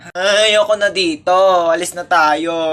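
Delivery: put-on whining child.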